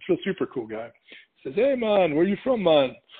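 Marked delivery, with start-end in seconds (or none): 1.5-2.9 full-on put-on Jamaican accent, pitched up. Retelling a seller's greeting to his group, in a full Jamaican accent. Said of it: "It's the full Jamaican accent".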